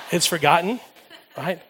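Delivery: laughing through the words; a wry, chuckling repeat; ironic laugh. Real, not acted. Pastor joking to the congregation he kept the email, laughing. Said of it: "although I kept the email".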